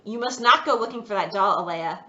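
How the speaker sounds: firm, stern warning; a stern father's warning. Acted. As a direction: lay down the law. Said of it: "He said sternly".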